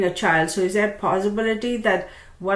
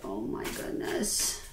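tired sigh; 4 semitones lower, 13 dB quieter, slower than usual. Retold or imitated. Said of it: "I'm like".

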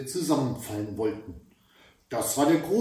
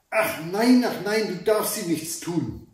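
pleading giantess; 4 semitones higher than usual. Acted. Giantess begs her husband to spare the girls, pleading. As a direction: plead with the troll to spare them. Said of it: "bat die Riesin".

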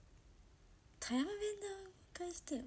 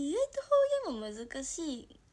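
ordinary talk

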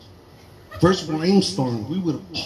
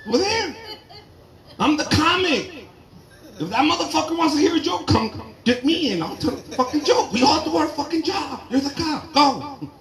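pitched-up scared whine; high whiny plea; 10 semitones higher than usual. Retold or imitated. Comic tells his sheriff wife to go, high whine. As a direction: keep the frantic begging going.

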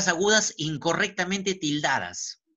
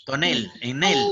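"Tonel", then its last syllable NEL echoed; stress on NEL; 2 semitones lower, 4 dB louder than usual. Shown as a demonstration. Teacher showing a palabra aguda, stress on NEL in "Tonel". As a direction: land firmly on NEL in "Tonel, en el". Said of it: "¿Es palabra aguda?".

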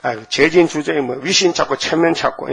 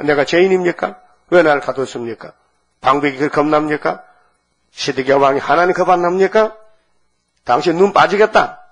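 acted challenge to the king, rising on key questions; protesting. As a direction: throw pointed questions back at him. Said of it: "항변하는 거예요". (왕에게 대들며 항변하는 말투)

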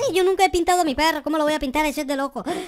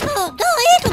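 high mother voice; 9 semitones higher, 4 dB louder than usual. Acted. Mother voice protests.

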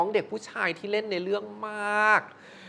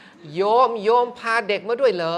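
very slow, drawn-out monk's question, higher and louder; imitating a monk; 5 semitones higher, 6 dB louder, slower than usual. Host imitating the monk asking the producer, very slow. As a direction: drag each word out like an old monk asking. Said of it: "หลวงพ่อหมอดูก็จะบอกว่า".

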